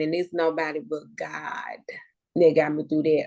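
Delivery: tearful thanks, nearly whispered; choked up. Real, not acted. Tearful thanks to God for getting her through. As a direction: voice catching, the last words breathed out.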